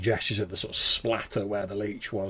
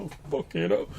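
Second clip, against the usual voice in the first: alarmed curse; 5 semitones higher, 3 dB quieter, faster than usual. Acted. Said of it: "as he's seen this thing behind him".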